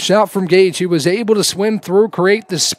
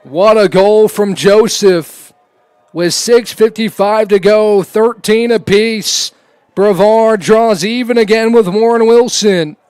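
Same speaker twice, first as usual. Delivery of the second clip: excited; 2 semitones higher, 3 dB louder than usual. Real, not acted. Play-by-play after tying goal.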